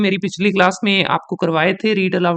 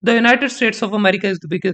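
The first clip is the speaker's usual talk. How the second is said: slow read, biggest hit harder; stress on biggest; much slower than usual. Shown as a demonstration. Teacher showing students where stress falls, on biggest. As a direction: build the phrase up to biggest. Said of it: "बिगेस्ट पे stress करेंगे".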